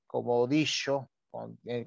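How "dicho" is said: dicho said with sh, like dicho; old Spanish x as sh in dicho; old sh sound. Shown as a demonstration. Speaker demos the medieval sh pronunciation in dicho. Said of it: "se pronunciaba como una she".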